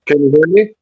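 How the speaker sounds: muffled, as if through water; bad mic, voice drowned and muffled; underwater voice. Real, not acted. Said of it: "you sound like you're underwater".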